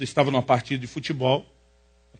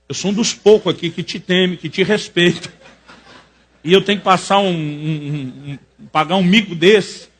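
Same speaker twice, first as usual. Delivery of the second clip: indignant complaint; 2 semitones higher, 6 dB louder than usual. Retold or imitated. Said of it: "fiquei muito revoltado com aquilo".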